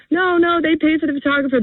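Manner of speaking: retold excited protest. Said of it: "I'm like".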